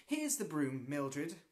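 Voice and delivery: calling out. Acted. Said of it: "called Ethel".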